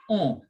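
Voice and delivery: nasal vowel on; "on." with vowel through the nose. Shown as a demonstration. Teacher contrasting O with on, nasal. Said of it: "There's a difference between O and on".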